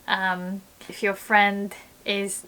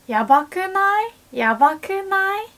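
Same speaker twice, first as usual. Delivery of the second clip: much higher rising "yabakunai?"; excited question; 10 semitones higher, 5 dB louder than usual. Shown as a demonstration. Friend asking if it's amazing, much higher and rising. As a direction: ask it all excited. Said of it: "use this more like".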